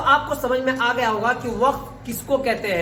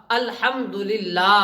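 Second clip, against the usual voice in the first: slow, syllable by syllable; measured, drawn-out teaching recitation; spelling-out recitation; much slower than usual. Shown as a demonstration. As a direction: draw out each syllable for learners. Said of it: "آج میں ہجا کر رہا ہوں".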